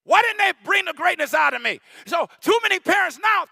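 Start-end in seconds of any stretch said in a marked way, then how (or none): 0.0-1.8 put-on grown child's lament. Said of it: "He said".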